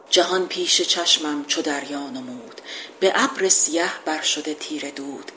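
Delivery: measured epic verse reading; poem recitation. Acted. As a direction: declaim the couplet like an old epic.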